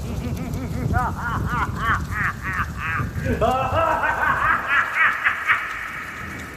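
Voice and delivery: high, soft fading evil laugh; high-pitched diabolical laughter. A narrator's reading. Grimlin laughs after the fleeing Conrad, high diabolical laughter. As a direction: let a mad laugh trail away. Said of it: "his high-pitched diabolical laughter".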